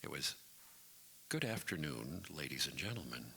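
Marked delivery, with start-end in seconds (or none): 1.3-3.2 measured, formal on-air greeting; formal radio announcer. Acted. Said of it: "had to be very formal".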